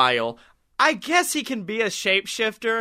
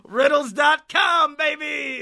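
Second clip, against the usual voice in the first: high laughing brag; laughing gloat; 8 semitones higher than usual. Acted. Villain gloats about his riddle database, laughing high. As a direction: crow about your riddle source.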